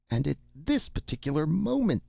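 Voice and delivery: high, strained urgent voice; agitated minister. Acted. Defense minister cuts in on Leoh, high and urgent. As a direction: press the point in alarm.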